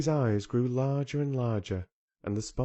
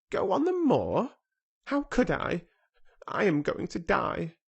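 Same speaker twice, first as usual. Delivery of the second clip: startled; 9 semitones higher, 4 dB louder than usual. A narrator's reading. Colin startled, despairing.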